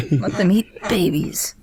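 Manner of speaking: real chuckle through the words; laughing echo. Real, not acted. Host echoes co-host's babies quip, laughing. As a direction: laugh as you repeat the punchline.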